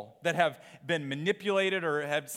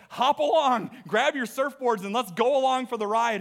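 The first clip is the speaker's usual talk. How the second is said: raised, lively invitation, as if quoting God; God calling people along; 5 semitones higher, 3 dB louder than usual. Retold or imitated. God inviting the church along for the ride, eager call. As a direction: call out eagerly to come aboard. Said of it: "And he says".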